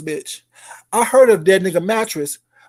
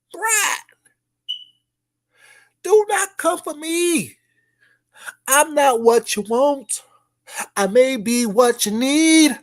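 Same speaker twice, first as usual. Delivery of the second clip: slow high diva; 4 semitones higher, slower than usual. Acted.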